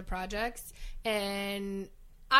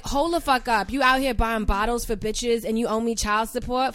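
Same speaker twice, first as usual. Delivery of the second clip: bird voice; 2 semitones higher, 5 dB louder than usual. Pretend. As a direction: perform the tough girl from the block. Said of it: "Let's hear it".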